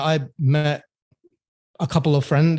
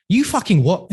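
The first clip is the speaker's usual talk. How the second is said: higher-pitched Cockney outburst, imitating dad; 5 semitones higher than usual. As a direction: imitate an incredulous Cockney father. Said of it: "He's Cockney".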